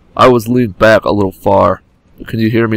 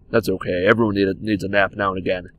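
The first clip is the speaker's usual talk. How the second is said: soft consoling; 4 semitones lower, 8 dB quieter, faster than usual. Pretend. Consoling a sleeping teammate.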